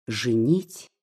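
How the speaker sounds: «Женить?» asked with a rising, alarmed tune; a hint of frightened disbelief on «Женить?»; startled question. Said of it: "воскликнула с испугом Поля". (испуганно переспросить «Женить?» с подъёмом)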